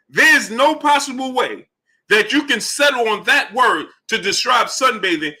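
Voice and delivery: high, slowed, incredulous rant; exasperated rant pitched high; indignant disbelief. Real, not acted. Ranting about word choice.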